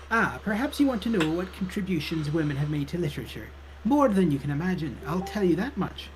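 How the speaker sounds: librarian in game, pitch lilting up; librarian character voice. Acted. Librarian talks of women writers to a visitor, character voice. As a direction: read it as the helpful librarian. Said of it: "which voice you use for her".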